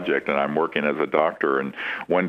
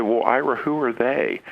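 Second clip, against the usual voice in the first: pitched up, pointed question; incredulous challenge; 6 semitones higher than usual. Retold or imitated. Retold challenge to a sheepish producer, incredulous. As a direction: demand to know who they are.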